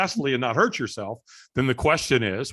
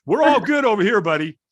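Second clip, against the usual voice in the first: high-pitched, overdone cheerful denial; fake "I'm fine"; 9 semitones higher, 3 dB louder than usual. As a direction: insist all is well, unconvincingly, voice way up. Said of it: "We say the opposite".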